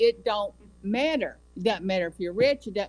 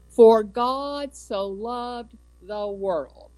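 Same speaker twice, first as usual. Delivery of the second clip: each word of the verse drawn out slow and a bit louder; slow scripture recital; 3 semitones higher, 4 dB louder, much slower than usual. Acted. Preacher reciting John 3:16 to the congregation, slow and deliberate.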